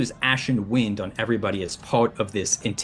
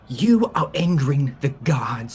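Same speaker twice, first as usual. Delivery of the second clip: raised, ominous warning of divine wrath; intimidation; 6 semitones higher than usual. Acted. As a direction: intimidate them like a doom-laden prophet. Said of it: "part of my intimidation".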